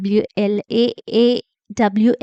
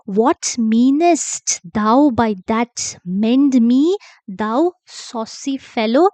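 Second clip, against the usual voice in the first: slow, emphatic, mildly angry demand; getting angrier; 3 dB louder, slower than usual. Acted. Marullus challenges the cobbler over mending him, mildly angry. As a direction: read the rebuke louder and slower, with a touch of anger. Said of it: "Marullus is getting even more angry".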